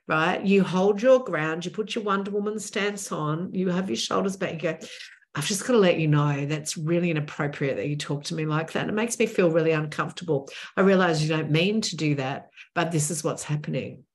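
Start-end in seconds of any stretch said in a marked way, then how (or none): 5.3-14.0 calm and firm, never raising the voice; even, assertive tone. Shown as a demonstration. Telling an older colleague his touching is inappropriate, calm and firm. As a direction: set a boundary politely but clearly. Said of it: "You do it in an even tone".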